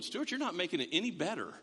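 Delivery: imitating the listeners with a laugh; half-laughing mock protest; laughing mock complaint. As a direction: play a listener teasing through a laugh. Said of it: "some of you are going".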